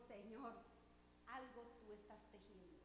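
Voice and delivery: quiet, intimate words to God; hushed prayer. Retold or imitated. Preacher recalls her soft prayer to God. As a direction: pray it softly, as if only God should hear.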